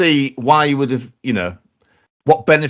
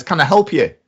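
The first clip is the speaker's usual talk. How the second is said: put-on Irish accent; 5 semitones higher than usual. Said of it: "why did the Irish accent suddenly".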